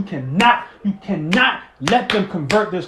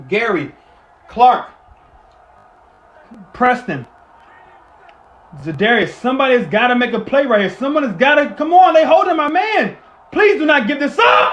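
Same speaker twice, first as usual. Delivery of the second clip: desperate pleading; 3 semitones higher, 5 dB louder than usual. Real, not acted. Pleading on fourth down.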